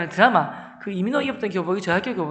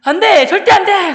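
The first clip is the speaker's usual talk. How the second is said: high, loud father's outburst; shouted refusal; 10 semitones higher, 10 dB louder than usual. Retold or imitated. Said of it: "소리 지르셨어요". (버럭 소리 지르며 반대)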